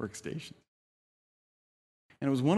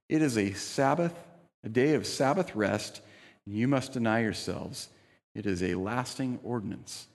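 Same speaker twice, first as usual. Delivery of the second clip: a touch louder, formal Bible reading; scripture reading; 2 semitones higher, 3 dB louder than usual. Acted. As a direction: read the verse out to the congregation. Reads Leviticus passage aloud.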